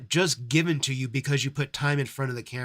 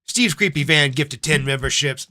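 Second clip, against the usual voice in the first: excited shout-out; 6 dB louder than usual. Real, not acted. Announcing a gift on stream.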